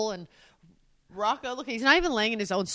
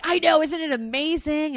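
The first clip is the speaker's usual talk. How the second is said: higher-pitched acted enthusiasm; delighted agreement; 6 semitones higher than usual. Imagined spouse agreeing about the move, delighted. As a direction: gush along eagerly. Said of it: "And you're like".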